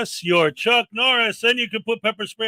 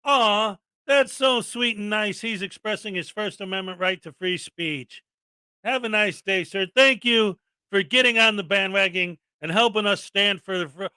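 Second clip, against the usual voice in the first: mock sweet reply. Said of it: "they would say".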